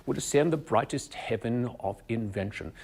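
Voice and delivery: upper-class English accent, tall mouth shape held; standard English accent. Shown as a demonstration. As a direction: keep the upright standard English shape through the line. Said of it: "I keep that shape".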